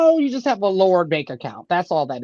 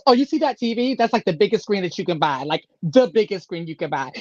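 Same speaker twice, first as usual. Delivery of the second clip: mock bragging; 3 semitones higher than usual. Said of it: "She goes".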